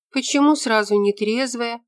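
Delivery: put-on a young woman stung by the question; offended. A narrator's reading. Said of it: "обиделась девушка".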